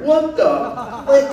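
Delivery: high, loud imitated startled yell; mock the guy's sudden angry shout; guy catching the photographer, hammed-up indignant shout; angry outburst. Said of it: "he starts".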